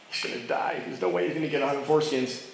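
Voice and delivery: hushed, quick sly aside; scheming whisper. Retold or imitated. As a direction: whisper it like a plotting king.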